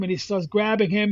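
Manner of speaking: usual speaking voice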